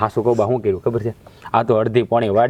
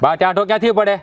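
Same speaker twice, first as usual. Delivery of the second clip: higher, heated outburst; angry retort; 6 semitones higher than usual. Acted. Son flares up at his mother, higher and heated. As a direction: flare up at being told to calm down. Son enraged about sister's honour.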